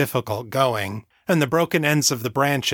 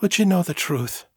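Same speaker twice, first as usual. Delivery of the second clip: higher, gentle motherly lilt; 6 semitones higher than usual. A narrator's reading. Mother offers her daughter the truth, gentle. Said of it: "she asked gently".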